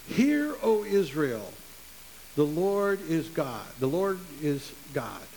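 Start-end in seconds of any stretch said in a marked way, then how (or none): 0.1-3.7 slow, solemn recitation of the Shema. Shown as a demonstration. Preacher reciting the Shema to the congregation, slow and solemn. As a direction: intone it slowly like a prayer. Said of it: "it begins with this phrase".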